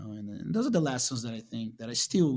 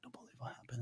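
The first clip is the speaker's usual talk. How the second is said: hushed whisper to a friend; whispered confidence; 18 dB quieter, faster than usual. Retold or imitated. Fighter telling Fred the news, whispering. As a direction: lean in and whisper it.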